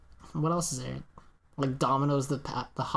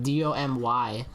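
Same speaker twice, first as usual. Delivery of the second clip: slow spelling; 3 semitones lower, slower than usual. Real, not acted. Spelling out a made-up name.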